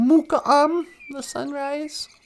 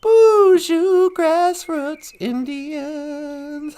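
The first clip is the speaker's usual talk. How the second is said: drawn-out greeting; much slower than usual. Real, not acted. Greeting viewers in drawn-out chant.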